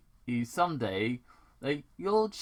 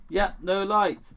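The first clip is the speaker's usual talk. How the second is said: dry dad reply; 8 semitones higher, 6 dB louder than usual. Acted. Tom voiced.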